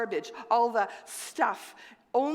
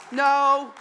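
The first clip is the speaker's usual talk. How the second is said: raised voice; 8 dB louder, slower than usual. Acted. Heated correction of the story.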